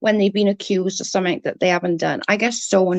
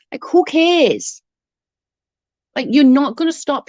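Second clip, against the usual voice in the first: scornful; 5 semitones higher, 3 dB louder than usual. Real, not acted. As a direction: sneer it, dismissive. Scornful dismissal of rival.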